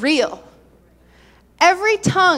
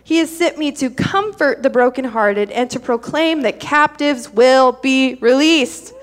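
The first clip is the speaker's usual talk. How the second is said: scripture reading. Acted. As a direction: read it out to the church. Reads Isaiah 61 aloud.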